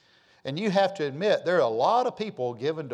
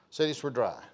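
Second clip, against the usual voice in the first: softer, chuckling echo of the line; laughing aside; 2 semitones lower, 4 dB quieter than usual. Real, not acted. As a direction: let it fall with a little laugh to the congregation.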